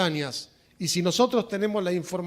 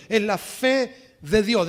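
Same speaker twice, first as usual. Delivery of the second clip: proclaiming; 4 dB louder, slower than usual. Acted. Preacher proclaiming to congregation.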